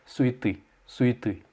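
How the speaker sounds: Souhaiter as "su-yi-TY"; corrected pronunciation. Shown as a demonstration. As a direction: say Souhaiter with "yi" and final stress. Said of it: "tu vas le prononcer yi". (Souhaiter prononcé « sou-yi-té »)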